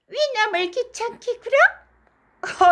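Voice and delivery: high, slow drawn-out mock lady; mimicking the lady again. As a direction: mince it out like a songbird. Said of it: "꾀꼬리 같은 소리".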